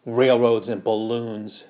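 slow scornful scoff; a mother scoffing at modern contraptions. Acted. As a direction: sneer at the words railroads and balloons. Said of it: "she scoffed".

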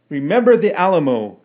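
loud, high rallying shout. A narrator's reading. Kelly shouting the battle cry for his brother. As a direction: hurl it back as a rallying cry. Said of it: "shouted Kelly".

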